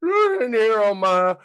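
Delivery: exaggerated Southern rocking-chair voice; full-on crazy Southern. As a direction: ham up a crazy Southern dad, pitch swooping high. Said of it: "full-on crazy Southern. So I just went".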